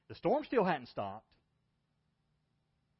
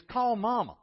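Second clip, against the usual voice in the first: put-on panicked child; 6 semitones higher, 6 dB louder than usual. Son panicking in drifting boat.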